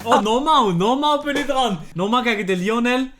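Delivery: loud, high, eager; excited. Real, not acted. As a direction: burst in with excitement. Excited about own turn.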